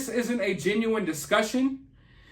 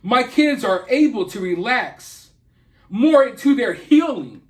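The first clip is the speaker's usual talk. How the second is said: mock-earnest sing-song, leaning on kids and more; mocking imitation; 3 dB louder than usual. A commentator mocks the mother's statement with a hint of sneering imitation. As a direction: parody the way she talks, lightly. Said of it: "they talk like this".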